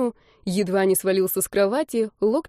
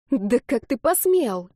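higher, slow indignant cry; slow, higher-pitched indignant cry; outraged shout; 4 semitones higher, slower than usual. Acted. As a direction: burst out in outrage before catching herself. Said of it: "закричала она".

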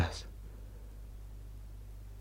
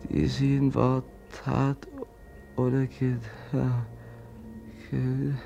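prayer. Acted. Brother prays for the dead woman by candlelight. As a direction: pray over the dead, reverently. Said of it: "ich will beten".

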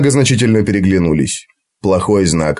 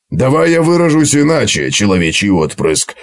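dwarf voice. Acted. Gotrek voiced in story.

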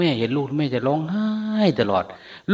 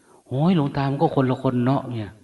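laughing sister. Retold or imitated. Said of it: "แต่น้องมันนี่จะหัวเราะ".

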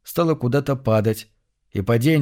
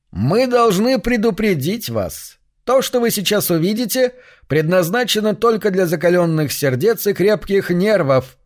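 muffled dead man voice; 7 semitones higher than usual. Acted. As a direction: speak as if from under the earth. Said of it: "Голос звучал приглушённо, словно из-под земли".

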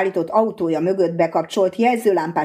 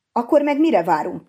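shouted; 6 semitones higher than usual. Acted. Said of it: "kiáltotta a hadnagy".

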